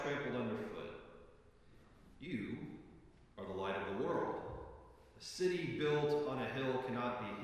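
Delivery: measured, solemn reading of the gospel; scripture reading. Acted. Pastor reading the gospel to the congregation, solemn. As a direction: read it out to the congregation with reverence.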